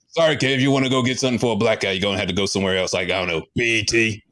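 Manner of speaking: rapid dismissive reply; fast brush-off. Acted. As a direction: rattle it off dismissively. Agent brushes him off fast.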